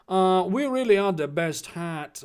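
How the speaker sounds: lightly put-on Chinese caricature; mock Chinese accent. Draco boasting of his house, mock Chinese accent. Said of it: "now he's Chinese again".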